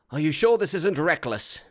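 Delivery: wry elf king. Acted. Fingolfin voiced, higher.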